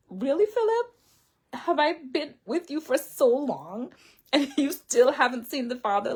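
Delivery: high, incredulous "really?"; Jesus teasing Philip, high and incredulous; exasperated Jesus. Retold or imitated.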